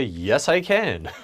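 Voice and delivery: happy, willing, slow; laughing cheerful yes. Retold or imitated. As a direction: agree gladly with a laugh. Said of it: "and I would say".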